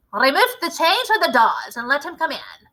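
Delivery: a lightly voiced commanding witch leader; a hint of a grand witch showing off her recipe; Grand High Witch. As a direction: lecture the coven like their boss.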